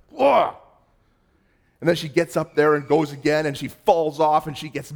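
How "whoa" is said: a high, loud startled whoa as she tumbles off. Retold or imitated. Pastor voicing his daughter falling into the pit, startled loud whoa.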